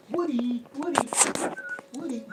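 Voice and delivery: high, repeated name call; neighbor's teasing call. Retold or imitated. Neighbor always calls the narrator's nickname, calling out. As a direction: imitate the neighbor's habitual holler. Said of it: "he used to always go".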